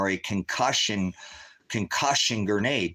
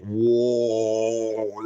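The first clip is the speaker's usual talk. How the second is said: dazed whoa; 3 dB louder than usual. Retold or imitated. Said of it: "My hearing is just fucking just like".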